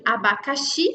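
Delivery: "abacaxi" with the final "xi" strongest; stress on last syllable. Shown as a demonstration. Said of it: "a última sílaba é a mais forte". ("abacaxi" com a última sílaba, "xi", mais forte)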